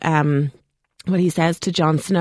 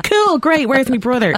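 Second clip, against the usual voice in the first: mock cool; 7 semitones higher, 3 dB louder than usual. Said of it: "would you be like".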